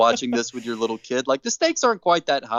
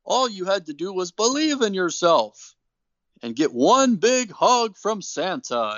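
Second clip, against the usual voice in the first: Santa voice; 6 semitones higher than usual. Retold or imitated. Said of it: "And Santa says".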